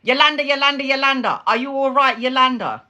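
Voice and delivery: high-pitched mock holler; retold scream. Mother calling towards daughter's room, mock scream. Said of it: "I'm screaming".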